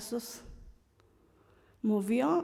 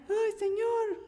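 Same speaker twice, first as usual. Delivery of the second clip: Ana's tearful plea; 11 semitones higher, slower than usual. Retold or imitated. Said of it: "lloró".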